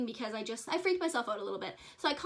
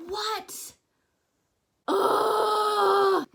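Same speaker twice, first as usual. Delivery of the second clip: much higher, loud disbelieving cry; shocked outburst; 9 semitones higher, 9 dB louder than usual. Real, not acted. Shock at shadow behind bin.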